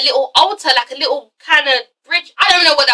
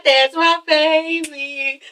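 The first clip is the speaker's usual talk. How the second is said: drawn-out doting call; 2 semitones higher, much slower than usual. Acted. Usher answering her man's greeting, drawn-out doting call. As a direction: echo it back, every word drawn out. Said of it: "And she's like".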